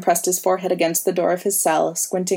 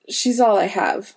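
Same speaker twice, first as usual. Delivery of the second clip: rasping; 3 semitones higher than usual. Acted. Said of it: "he rasped at last".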